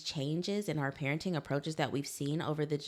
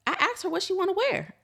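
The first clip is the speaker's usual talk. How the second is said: laughing; 5 dB louder, faster than usual. Real, not acted.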